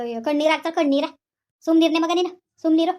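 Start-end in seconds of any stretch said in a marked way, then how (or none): 1.6-2.9 angry hush. Acted. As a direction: shout him down. Shouting someone down in quarrel.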